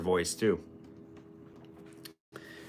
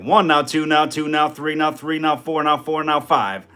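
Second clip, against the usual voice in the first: slow auctioneer practice; 3 semitones higher, 4 dB louder than usual. Shown as a demonstration. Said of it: "little baby steps".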